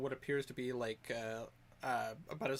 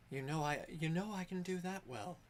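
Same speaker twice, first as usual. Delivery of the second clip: higher character voice sinking on the last words; voice deepening at end; 3 semitones higher than usual. Acted. Game master's character answers a farewell, voice deepening at the end. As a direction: start light, let the end drop deeper. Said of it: "Her voice got deep at the end".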